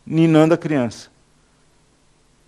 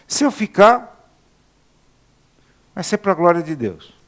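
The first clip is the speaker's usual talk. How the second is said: quoting Paul. Retold or imitated. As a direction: voice Paul torn between staying and going. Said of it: "Paulo dizia assim".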